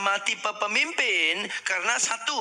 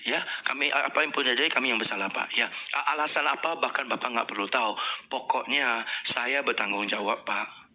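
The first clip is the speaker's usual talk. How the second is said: humble apology; 6 semitones lower than usual. Shown as a demonstration. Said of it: "kita hanya minta maaf".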